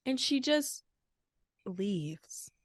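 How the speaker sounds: hushed gossip whisper. Retold or imitated. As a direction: drop to a secret whisper. Dramatic gossip about Kayla leaving.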